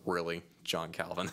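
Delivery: flat, doubtful disbelief at the name; sceptical groan. Pretend. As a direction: sound unimpressed and doubtful.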